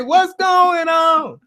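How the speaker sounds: high, slow, shouted dog voice; voicing the dogs. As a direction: play the barking dogs asking what's up. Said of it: "they say".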